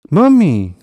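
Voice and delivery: high, loud, falling wail of a call; desperate cry. A narrator's reading. Little hedgehog calls to his arriving mum, desperate cry. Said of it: "cried Stan desperately".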